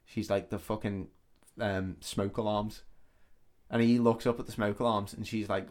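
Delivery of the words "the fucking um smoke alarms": softer, hesitant undertone; retold whisper. Woman revealing who is listening, retold softly and hesitantly. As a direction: lightly imitate a secretive hush. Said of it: "And she just whispers".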